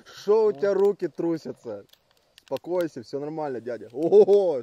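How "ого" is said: surprised. Real, not acted. Surprised at the broth.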